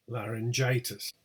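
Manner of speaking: LARYNGITIS with lighter LAR, main GI; secondary stress. Shown as a demonstration. Teacher showing secondary stress at beginning, LAR then GI. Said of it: "secondary word stress at the beginning".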